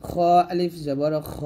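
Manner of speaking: rasped back-of-mouth খ, held long; throat letter. Shown as a demonstration. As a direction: spell it, then stretch খ from the throat. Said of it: "এরকম".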